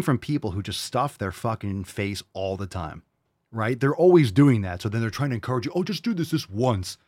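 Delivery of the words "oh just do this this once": high-pitched mimicry of a tempter; mock coaxing. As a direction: coax mockingly, starting high. Mimics people encouraging treats.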